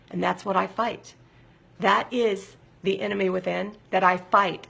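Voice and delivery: normal talking voice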